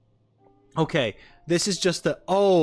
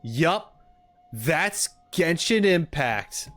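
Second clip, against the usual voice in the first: Paimon; 4 semitones higher, much slower than usual. Retold or imitated. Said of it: "Paimon could have been like".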